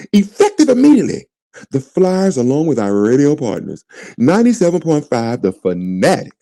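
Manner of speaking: lightly put-on formal press-release voice; mock corporate voice. Host reading the team's apology in a mock white voice. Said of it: "I'm gonna read it like a white person would read this".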